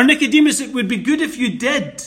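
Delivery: fast, light, half-laughing suggestion; hammed-up casual suggestion; mild suggestion. Shown as a demonstration. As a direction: toss it off as optional. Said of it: "a mere simple statement of request".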